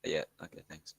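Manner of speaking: whispered. Real, not acted. Gamer whispering thanks to a friend mid-match, whispered. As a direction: breathe it out, no voice at all. Quick aside during a game.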